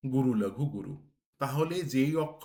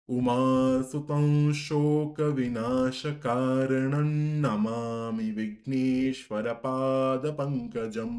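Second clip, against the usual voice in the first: slow, measured Sanskrit chant; slow recitation; much slower than usual. Shown as a demonstration. Teacher reciting the verse line to students, slow and measured. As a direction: weigh every syllable as you recite. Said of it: "দন্তের নয়ের মতো হতে হবে".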